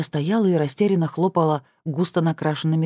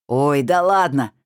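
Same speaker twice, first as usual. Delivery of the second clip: laughing dismissal; 4 dB louder, slower than usual. Acted. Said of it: "хохотнула она".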